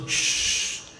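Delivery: a whispered shh to keep it secret; hushing whisper. Acted. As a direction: hush him like a conspirator. Krishna hushing his reflection.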